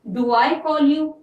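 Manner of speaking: very slow, lifting toward "you"; slow teacher's question; slow question intonation. Shown as a demonstration. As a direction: dictate the question slowly. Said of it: "ये है सवालिया".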